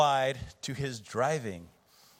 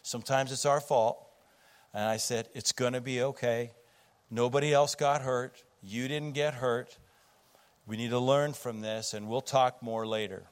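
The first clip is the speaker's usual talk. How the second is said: calming. Retold or imitated. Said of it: "I calmed him down".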